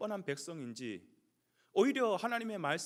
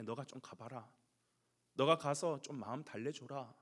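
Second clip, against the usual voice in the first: father's gentle request; 5 semitones lower than usual. Acted. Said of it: "형을 불러서". (아버지처럼 낮고 부드럽게 타이름)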